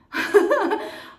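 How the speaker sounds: high, loud happy laugh; thrilled giggle over a gift; delighted laugh. Real, not acted. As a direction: burst out laughing with joy.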